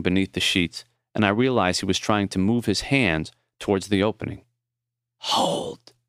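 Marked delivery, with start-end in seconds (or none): 5.2-5.9 weak rasp. Acted. Dying man asks, far voice.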